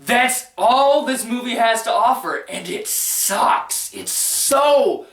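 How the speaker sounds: indignant, drawn-out venting; fed-up rant. Real, not acted. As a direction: punch out each complaint in disbelief. Fed-up rant about the movie.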